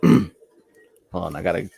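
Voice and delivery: put-on hesitant stab at a Brooklyn accent; New York accent. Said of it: "the speaker with a New York accent".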